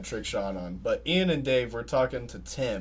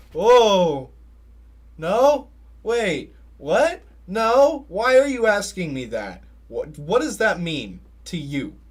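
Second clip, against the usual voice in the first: higher and louder, flustered denial; retelling a panicked no; startled protest; 5 semitones higher, 6 dB louder, slower than usual. Retold or imitated. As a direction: back away from the question in alarm. Retold startled reaction to question.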